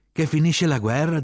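high, loud call; shouted answer. A narrator's reading. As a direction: shout the translation over the din. Answering officer over the din.

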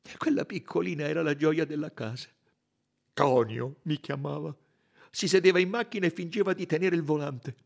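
high, emotional fondness; sweetened, moved Italian suspect; tender reminiscence. A narrator's reading. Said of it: "La sua voce si era fatta più dolce".

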